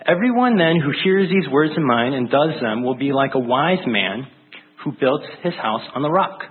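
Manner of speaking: measured reading of the Bible passage; scripture reading. Acted. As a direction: read it like a solemn proclamation.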